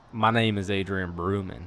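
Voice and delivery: light country-singer voice. Shown as a demonstration. Singer introduces himself on request in a light country voice. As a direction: say it with a slight country twang. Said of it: "give me your name in a country voice".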